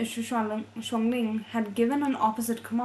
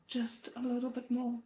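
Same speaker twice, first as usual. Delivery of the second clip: softly, through effort; quiet strain; 6 dB quieter than usual. Acted. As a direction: murmur it while straining. Straining inner thought.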